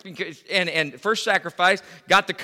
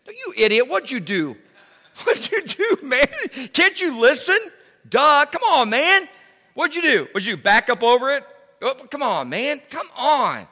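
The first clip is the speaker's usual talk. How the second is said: much higher and louder, a hammed-up scolding with a laugh; mock angry dad; 8 semitones higher, 5 dB louder than usual. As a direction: play the exasperated father yelling at his son. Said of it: "And start condemning him".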